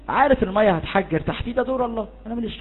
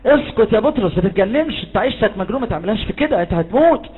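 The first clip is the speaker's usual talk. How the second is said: alarmed disciples; 3 semitones higher than usual. Acted. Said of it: "التلاميذ حواليه بيقولوا كده".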